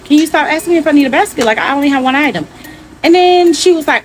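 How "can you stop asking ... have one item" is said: annoyed friend. Retold or imitated. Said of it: "my best friend's annoyed".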